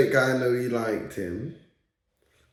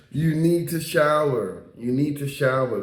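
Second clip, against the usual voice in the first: lightly imitated American accent. Imitating the man saying you need to shower, light American accent. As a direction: mimic an American telling someone to wash. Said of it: "'cause he had this American accent".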